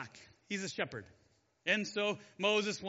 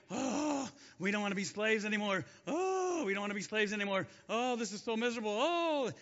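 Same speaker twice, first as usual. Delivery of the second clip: whining. Retold or imitated. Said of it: "God hears them whining and complaining".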